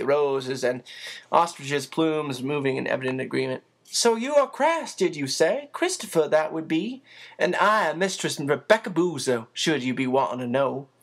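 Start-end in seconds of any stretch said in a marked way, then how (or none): 3.8-10.9 put-on a busy motherly woman teasing the boy; bustling housekeeper. Narrator voices Becky.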